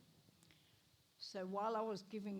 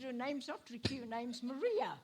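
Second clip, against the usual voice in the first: insisting; 4 semitones higher, 7 dB louder than usual. Retold or imitated. Retold naming argument.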